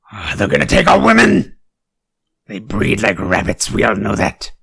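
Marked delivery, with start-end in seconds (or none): 0.1-1.6 mock panic. Mock paranoid ranting.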